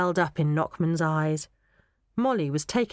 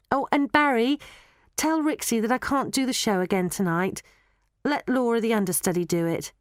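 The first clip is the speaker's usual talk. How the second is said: lightly voiced Molly, a little higher; Molly the girl; 5 semitones higher than usual. Molly asking Barry to look after Laura, light girlish voice. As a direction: lightly play a girl giving instructions.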